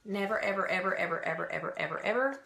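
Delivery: a long insistent string of evers; drawn-out never ever. Shown as a demonstration. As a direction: repeat ever again and again for emphasis. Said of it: "I didn't have enough paper to put all the hundred evers".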